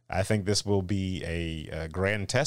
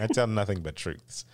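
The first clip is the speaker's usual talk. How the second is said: laughing. Acted.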